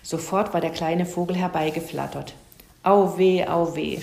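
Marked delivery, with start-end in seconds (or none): 2.8-4.0 louder first groan, sinking on the repeat; put-on groan of pain; moaning. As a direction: feign a bellyache with a mild moan. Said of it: "stöhnte Herr Fuchs".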